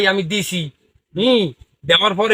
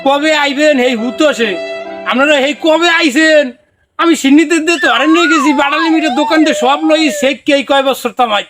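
excited pleading; 5 semitones higher than usual. Acted. Excited plea to dervishes.

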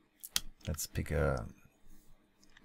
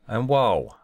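impressed wow; 5 semitones higher, 4 dB louder than usual. Real, not acted. Impressed by instant code suggestion.

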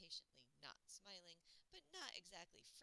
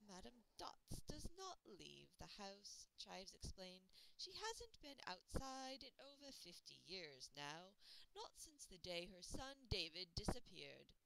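solemn butler; 2 semitones higher, 6 dB louder, slower than usual. Acted. Butler explains gravely.

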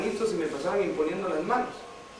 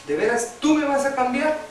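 heartfelt plea; 3 semitones higher than usual. Retold or imitated. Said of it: "con todo mi corazón y le dije".

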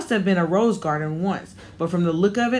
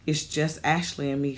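calmly; 3 semitones lower, 5 dB quieter than usual. Acted. Mother tells the landlady they are alone, calm and quiet. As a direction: lower and softer, calm and steady. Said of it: "she said calmly".

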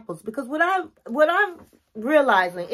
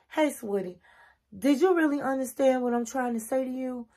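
gentle, respectful check-in, slightly softer; no attitude; 4 dB quieter than usual. Shown as a demonstration. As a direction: ask sweetly, without any sarcasm. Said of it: "say it in a way there's no sarcasm, there's no attitude".

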